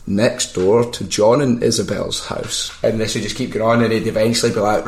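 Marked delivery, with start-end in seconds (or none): 0.1-2.7 lightly voiced old man, slow; a hint of a doddery old caller; old guy. Prank caller ordering a taxi as an old man, lightly aged voice. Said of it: "pretend to be, like, an old guy".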